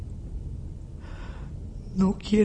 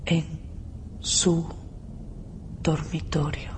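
soft unvoiced whisper; whispered invitation; 6 dB quieter than usual. Aura whispers to Felipe where to meet her. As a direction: lure him in with a whisper.

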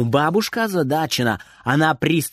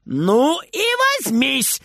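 higher, slow bawled dare; bawling boy; 9 semitones higher, much slower than usual. A narrator's reading. Boy bawls a dare back at granny, higher. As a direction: bawl the dare right back. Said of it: "горланит Фридер".

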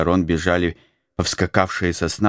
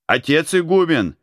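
higher, louder desperate call; 10 semitones higher than usual. A narrator's reading. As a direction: shout for the abbot across the yard. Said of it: "начал кричать он". (громкий отчаянный зов)

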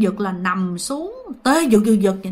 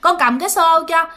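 put-on higher, eager pleading young girl; young cousin begging to come along, pitched higher; 4 semitones higher than usual. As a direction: beg your aunt to let you carry the bucket. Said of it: "mới nói với mẹ rằng á là".

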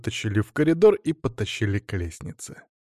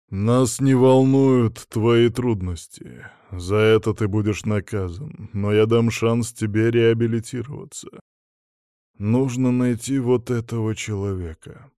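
disembodied voice; 3 dB louder than usual. Acted. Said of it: "произнёс голос".

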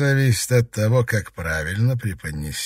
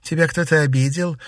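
lightly voiced sweet concern, pitched up; affectionate, higher voice; tender; 7 semitones higher, 3 dB louder than usual. A narrator's reading. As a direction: coo it like a caring lady. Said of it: "ласково улыбнулась дама теней".

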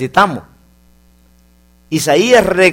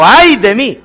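lament for the congregation to repeat; 4 semitones higher, 4 dB louder than usual. Shown as a demonstration. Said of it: "Diga conmigo".

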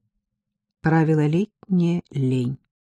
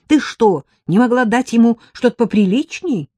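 indignant; 7 semitones higher, 5 dB louder than usual. Acted. Героиня в ужасе упрекает.

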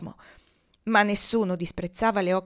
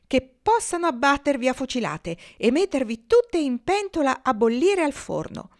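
louder, heated threat; a touch of furious geese; furious curse; 5 semitones higher, 4 dB louder than usual. A narrator's reading. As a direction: spit the curse out in anger.

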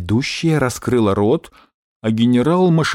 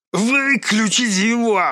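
much higher, slow, losing control; panicked general shout; 10 semitones higher, slower than usual. Acted. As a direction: yell to cut him off. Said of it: "потеряв самообладание, закричал генерал". (закричал, потеряв самообладание)

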